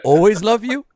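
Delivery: measured, with a lift on "always love you", then dropping low; stern mom. Acted. Mom telling son she loves but dislikes him, stern. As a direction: let the last clause fall low and final. Acted mother rebukes her son.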